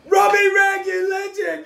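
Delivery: loud, high "Robbie Rag, you legend"; excited shouted greeting. Real, not acted. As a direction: welcome him like a hero. Greeting caller live on air.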